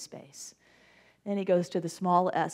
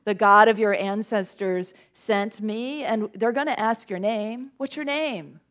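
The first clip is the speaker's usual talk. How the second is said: pleading Moses; 6 dB louder than usual. Acted. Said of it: "Then he goes".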